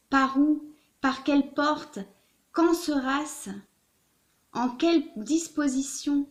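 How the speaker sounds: put-on measured, dramatic reading of an old letter; literary letter reading. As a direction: read it out with emphatic questions and pauses. Reads a letter aloud.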